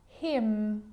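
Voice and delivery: "Hymn" said like him, with a held M; silent N. Shown as a demonstration. Teacher giving silent N examples, lingering final M. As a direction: model "Hymn" slowly, humming out the final M. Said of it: "it actually is silent when it's next to".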